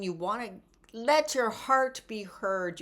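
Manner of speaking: usual speaking voice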